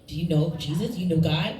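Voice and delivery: bright burst then earnest preacher questions; mock door-to-door preaching; eager evangelist. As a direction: pounce on the Mormons with zeal. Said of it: "I opened the door and I said".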